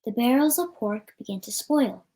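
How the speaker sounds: usual speaking voice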